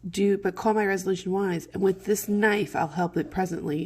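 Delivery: Juliet's threat. Acted. Juliet to the friar, threatening with her knife, lightly acted and insistent.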